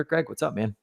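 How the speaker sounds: normal talking voice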